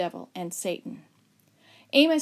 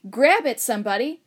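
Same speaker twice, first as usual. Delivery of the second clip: loud begging; 3 semitones higher, 7 dB louder than usual. Acted. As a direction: shout for help as the snake slips away. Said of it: "Father begged".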